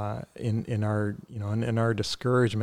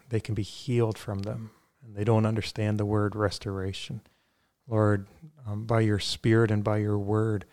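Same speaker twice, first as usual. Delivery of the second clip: measured prayer with pauses between phrases; spoken prayer. Real, not acted. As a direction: pray aloud sincerely, phrase by phrase. Leads a closing prayer.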